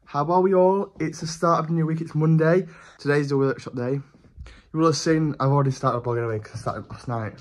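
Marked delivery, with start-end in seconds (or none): 0.0-4.0 lisping around teeth whitening strips. Real, not acted. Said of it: "I'm having a bit of a lisp".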